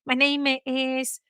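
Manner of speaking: put-on slow, careful English in a light Chinese accent; a hint of a Chinese accent. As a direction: imitate a Chinese client's English, slowly. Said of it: "ele falava assim".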